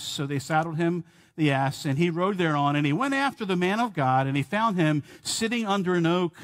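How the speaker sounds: measured King James reading voice; scripture reading. Acted. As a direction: read the verses with weight. Reads scripture aloud.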